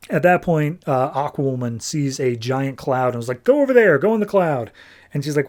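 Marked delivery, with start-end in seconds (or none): 3.4-4.7 quick raised-pitch command, acted out; urgent order. Aquawoman directs her carrier to a cloud, urgent order. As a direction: call out a mock urgent order.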